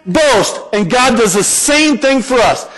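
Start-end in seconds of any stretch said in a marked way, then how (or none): 0.1-0.6 voice of God. Retold or imitated. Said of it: "God says".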